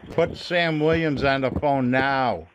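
slow, firm demand ending on a drawn-out "now"; insistent demand. Real, not acted. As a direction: space it out and stretch "now".

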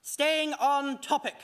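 "Staying on topic" drawn out slowly, each word weighed; steady yourself with "Staying on topic"; "Staying on topic" as a slow self-reminder; slow, deliberate. Shown as a demonstration. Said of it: "shaking his head to shake out the nonsense".

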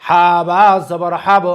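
teacher's model recitation, bouncing the final ব of হাব; qalqalah drill. Shown as a demonstration. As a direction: draw out হা and বা, then push the ব of হাব into an echo. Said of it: "কলকলা অর্থ হচ্ছে ধাক্কা দিয়ে পড়া".

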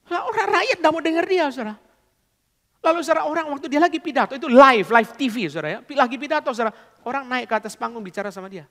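high, loud storytelling as the crowd turns; preacher raises his voice telling how the crowd ignored the dictator; excited retelling. A narrator's reading. Preacher telling the dictator story, high and loud.

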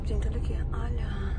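whisper. Real, not acted. Showing makeup to viewers.

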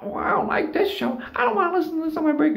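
high, prissy mock coworker voice, rushed at the end; stuck-up coworker. A snooty coworker complaining about the break room TV, high and prissy. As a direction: sneer it like a snooty woman on break. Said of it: "came in and was like".

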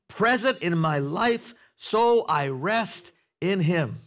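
measured, slowing declaration of faith; declaration to repeat. Shown as a demonstration. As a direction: model the words for the church to say daily. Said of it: "So I leave you with a Tifa. Try it".

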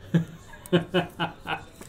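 short run of unvoiced chuckles. Real, not acted. Card breaker amused during the pack opening, chuckle. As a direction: let out a quick, light laugh. Breaker laughs after the callout.

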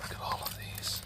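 hushed breathy whisper. Real, not acted. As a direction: whisper it in awe. Whispering over the toys.

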